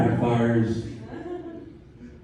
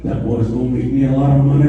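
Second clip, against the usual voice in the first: southern drawl; faster than usual. Retold or imitated. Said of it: "that thick southern drawl".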